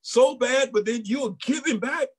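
mock the doubter's disbelief; imitating a doubter who can't believe she'd give him back; incredulous skeptic. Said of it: "a natural mind would say".

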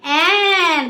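"অ্যান" held long for pupils to join in; pronunciation demo. Shown as a demonstration. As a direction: say "অ্যান" with a drawn-out, falling vowel. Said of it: "আমার সঙ্গে সঙ্গে বলো". (সবাই মিলে বলার জন্য টেনে "অ্যান")

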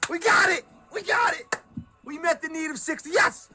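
shrieking jackpot winner. Real, not acted. Slot bonus hitting, screaming with joy.

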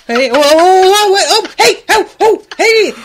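high, loud string of startled whoas; alarmed protest. Acted. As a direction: yell in alarm to make them stop. Acting out Bob's alarmed protest.

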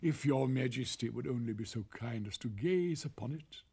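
slow gushing courtier voice; drawn-out grand praise for the emperor; pompous courtier. Acted. Officials praise the cloth.

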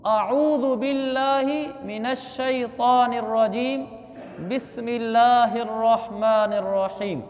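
slow, drawn-out Arabic recitation; correct recitation. Shown as a demonstration. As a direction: recite with careful long vowels. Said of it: "उसको सही करना है हमने". (ठहर कर तिलावत)

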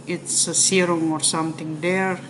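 speaking through sheet mask; hands pressing on cheeks. Real, not acted. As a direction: fingers pushing face sideways. Seen 0: Hands press cheeks beside mouth over sheet mask; mouth stays visible.

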